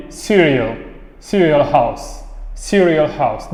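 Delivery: "cereal" with the R sounded before the vowel; demonstrating a pronounced R in "cereal". Shown as a demonstration. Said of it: "il est lu".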